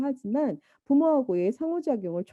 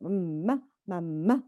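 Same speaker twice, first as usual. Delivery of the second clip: put-on toddler's first words; 3 semitones lower, 3 dB quieter, much slower than usual. Shown as a demonstration. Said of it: "뭐 이렇게 얘기하죠".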